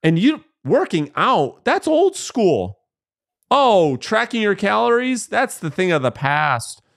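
pushy infomercial pitch, hyped up; hard sell ad. Retold or imitated. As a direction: sell it like a late-night TV ad. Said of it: "And the marketer is".

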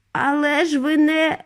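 high-pitched, cut-off objection; alarmed cry. A narrator's reading. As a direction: cry out in protest. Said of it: "крикнув дідунь Джо".

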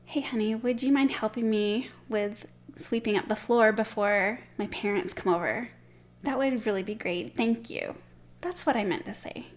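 calm, polite, even request; gentle redo. Shown as a demonstration. Wife asking husband for help before parents visit, calm and sincere. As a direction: ask again kindly, owning the lost temper. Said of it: "Let me try it again".

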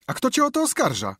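high, loud cry out of the crowd; sharp shouted challenge. Acted. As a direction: heckle him from the back. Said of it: "krzyknął jakiś głos z tłumu".

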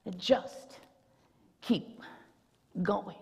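hushed refrain. Acted.

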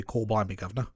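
stock Cockney practice line; English accent. Shown as a demonstration. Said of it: "do an English accent".

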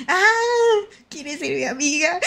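high, whimpering fake sob on "¿Quieres ser mi amiga?"; mock crying. Streamer playfully begging a chatter to be her friend, mock crying. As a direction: sob it out like a lonely kid begging.

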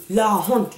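"La honte" said firmly as its own phrase; deliberate stress on "La honte"; emphasis on "La honte". Real, not acted. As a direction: underline "La honte". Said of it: "je dis bien".

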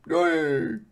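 high, chirpy mock queen greeting the crowd; Maxima impression. Waving queen greets the plebs, high and mocking. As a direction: coo at the plebs like a delighted queen. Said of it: "ik deed even Maxima na".

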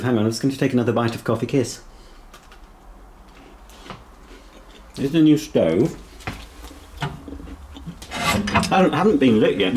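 talking with food in mouth; mouth full. Real, not acted. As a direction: speak through a mouthful. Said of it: "speaking with a mouthful".

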